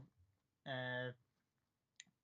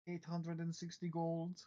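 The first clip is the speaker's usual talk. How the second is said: slow scheming host; 4 semitones higher, 4 dB louder, slower than usual. Acted. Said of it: "He immediately says".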